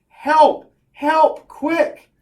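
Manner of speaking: high, loud acted cry for help; hammed-up yell for rescue; mock scream. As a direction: call out urgently in short bursts. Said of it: "and just screams".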